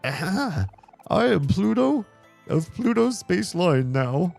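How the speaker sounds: high, proud announcer voice; booming, grand introduction; showy high character voice. Acted. Voicing Pluto character.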